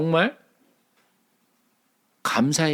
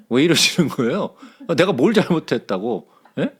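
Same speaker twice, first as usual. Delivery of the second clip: complaining to God. Retold or imitated. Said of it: "하나님한테 막 불평하죠".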